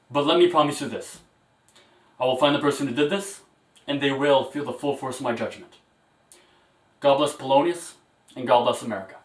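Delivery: rousing vow. Acted. President vows justice, ends speech.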